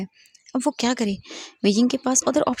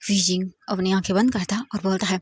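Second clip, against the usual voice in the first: usual speaking voice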